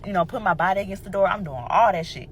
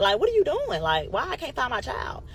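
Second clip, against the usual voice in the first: incredulous demand; 6 semitones higher than usual. Retold or imitated. Confronting the lady who kept her child.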